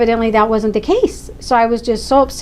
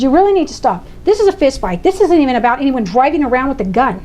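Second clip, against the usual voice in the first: raised, insistent order; firm angry demand; 3 semitones higher than usual. Retold or imitated. Mother ordering the district attorney to stop, firm and angry. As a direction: lay down the law. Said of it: "so frustrated and so angry".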